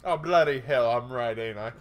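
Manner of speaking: quick mock British accent; a bad stab at British. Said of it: "you trying to do a British accent?".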